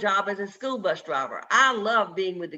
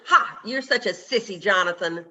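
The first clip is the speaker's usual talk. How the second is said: a taunting bully's jeer with a laugh in it; mocking laugh. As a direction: laugh at him while you sneer the insult. School bully taunting Jonathan.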